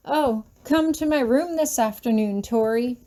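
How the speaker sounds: a lightly voiced, sarcastic parody of him; mocking imitation. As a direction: throw his own invitation back at him in mock. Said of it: "I mock him".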